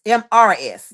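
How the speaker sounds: M R S spelled out letter by letter; firm letter-by-letter M R S; spelling it out. Shown as a demonstration. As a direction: say M R S one letter at a time. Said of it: "not M I S".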